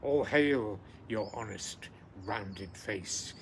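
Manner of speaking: slow, weighty English version of the verse; poem recitation. Acted. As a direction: read it slowly as a grand salute.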